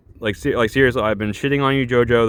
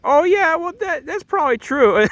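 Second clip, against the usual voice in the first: mock ditzy JoJo. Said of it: "And JoJo's like".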